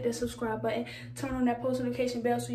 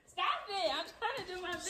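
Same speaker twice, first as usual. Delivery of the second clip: laughing while pleading; giggling through the words; 7 semitones higher, 6 dB quieter than usual. Real, not acted. Mom play-fighting him.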